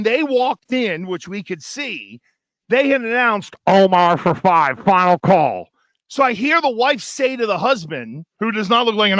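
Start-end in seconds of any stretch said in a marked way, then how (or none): 3.7-5.7 slow, lightly voiced call over the room; lightly voiced host paging a name; restaurant host calling. Mimicking host calling names.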